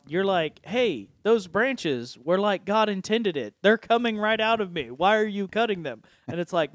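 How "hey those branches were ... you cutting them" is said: lightly voiced indignant tree, pitched higher; protesting apple tree. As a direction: object as the tree being pruned, higher.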